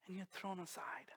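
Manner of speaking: breathy hushed whisper on the pain. Acted. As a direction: drop to a whisper to make them feel it. Dramatic sermon imagery, whispered.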